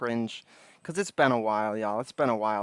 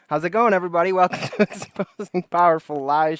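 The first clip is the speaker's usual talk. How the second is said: higher and louder, big host energy; hyped-up restart; 5 semitones higher, 8 dB louder than usual. Shown as a demonstration. Streamer restarting his show intro, hyped and loud. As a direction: redo the intro with a grin, pumped. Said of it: "That's not how I wanted to start this show".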